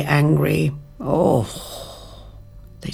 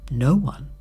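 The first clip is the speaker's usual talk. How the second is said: whispered moral; 3 semitones lower, 10 dB quieter than usual. A narrator's reading. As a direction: breathe the lesson out at the end. Whispered moral at story's end.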